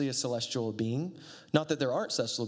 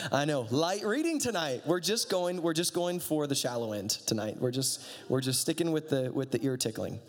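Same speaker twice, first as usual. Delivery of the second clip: mock-breezy sarcasm, pitched up at first; sarcastic. Real, not acted. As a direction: lay on the irony as if it were all easy. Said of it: "I'm being sarcastic".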